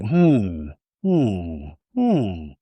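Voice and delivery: low, drawn-out thinking hums; pondering hum. Retold or imitated. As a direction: imitate someone mulling it over. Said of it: "she thinks about it".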